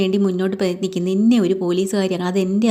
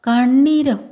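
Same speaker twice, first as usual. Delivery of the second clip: shocked question; 4 semitones higher, much slower than usual. Retold or imitated. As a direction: throw the word back in disbelief. Mother shocked at son's demand. (ഞെട്ടലോടെ ചോദ്യം)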